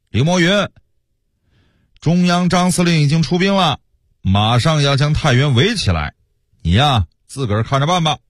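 mock herald calling up at the walls; acted crier's call. Soldiers report the war's progress to Li Moyun, calling out. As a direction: call out the warning without real shouting. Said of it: "叫一些嗓门大的到城下喊话".

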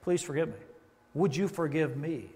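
slow, soft humble confession; sincere apology. Pretend. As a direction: ask forgiveness gently. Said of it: "Satan hates it when we say".

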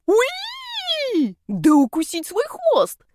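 high squealing surprise; delighted squeal. A narrator's reading. Snake Yani squeals from inside the bag at what he finds. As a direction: squeal it out in glee.

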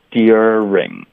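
"during" with d gliding into a ye sound; standard pronunciation. Shown as a demonstration. Teacher gives the first variant, standard full "during". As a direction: say "during" fully as dyur-ing. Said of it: "你可以发一个标准的during".

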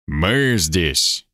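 low, barely audible rustling voice; a dry papery whisper of a ghost; rustling faint voice. A narrator's reading. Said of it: "едва слышный шелестящий голос".

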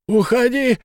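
high, loud despairing howl; loud cry of despair; desperate yell. A narrator's reading. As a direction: scream at him to leave. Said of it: "в отчаянии завопил Фиц".

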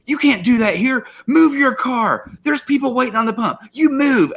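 high, scolding mock yell; retold screaming. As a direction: imitate an angry employee ordering someone away. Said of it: "So this lady just screams at me".

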